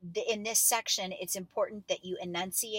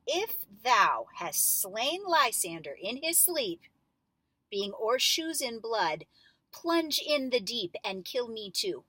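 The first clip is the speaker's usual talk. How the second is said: great conviction; 3 semitones higher than usual. Shown as a demonstration. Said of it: "with great conviction".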